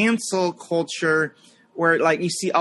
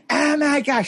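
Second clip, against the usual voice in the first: high-pitched mock outrage; imitated flipping out; 9 semitones higher than usual. Leftist chick at Starbucks flipping out, imitated high outrage. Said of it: "she started flipping out".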